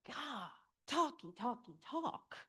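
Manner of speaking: soft, grumbling talky talky talk; mock exasperation. Teacher mocking the wordy prose to the class, exasperated. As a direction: mutter it as a fed-up reader. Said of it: "mocking the wordy prose".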